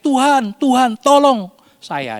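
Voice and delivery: desperate cry for help. A narrator's reading. Preacher voicing sinking Peter, crying out for help. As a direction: call out to the Lord as you sink. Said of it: "Dia berteriak".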